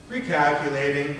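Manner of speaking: deflated, dropping delivery; voice going down. Shown as a demonstration. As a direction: let the voice sink. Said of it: "my voice goes down".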